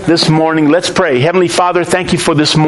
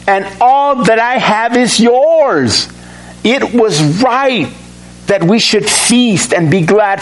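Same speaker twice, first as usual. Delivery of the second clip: tender father; 3 semitones higher than usual. Acted. Father answering his angry older son, tenderly. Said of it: "See the difference?".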